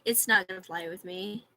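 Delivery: whispered repeat of the warning; hushed warning under the breath. Real, not acted. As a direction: breathe it out as a threat.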